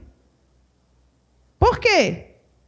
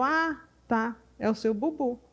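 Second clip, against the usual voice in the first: soothing mother's reply; 3 semitones lower, 9 dB quieter than usual. Retold or imitated.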